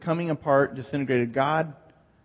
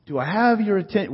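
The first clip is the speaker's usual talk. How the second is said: loud, higher demand for attention; raised voice; 7 semitones higher, 4 dB louder than usual. Shown as a demonstration. Preacher showing how we emphasize things, raised voice. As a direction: call out over a crowd. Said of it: "we raise our voices".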